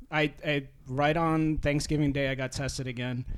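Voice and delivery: trembling, emotional voice; shaky voice. Real, not acted. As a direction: voice wavering with nerves. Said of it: "sorry if my voice is shaking".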